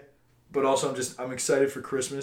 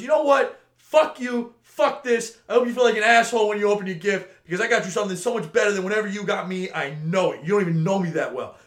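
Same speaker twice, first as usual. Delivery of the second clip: higher, louder imitated outburst at a coworker; higher, louder mock rant about a gift; mock furious rant; 5 semitones higher, 4 dB louder than usual. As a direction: ham up a coworker's fake tirade. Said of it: "She goes".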